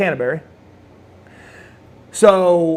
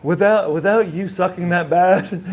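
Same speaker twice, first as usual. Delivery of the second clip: laughing through the words; laughing quote; 3 semitones higher than usual. Retold or imitated. Old friend teasing him about the photo, laughing. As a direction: let the laugh break into the line.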